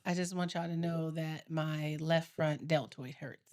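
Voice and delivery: low, soft, slow moaning; whiny complaint. Real, not acted. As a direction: moan about the sore muscle. Complaining of sore muscle.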